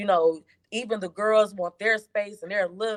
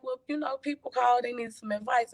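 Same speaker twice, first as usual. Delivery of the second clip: higher-pitched, mildly annoyed explaining; retold annoyance; 5 semitones higher than usual. Wife explaining the phone calls to her husband, retold annoyance. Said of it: "So I'm annoyed".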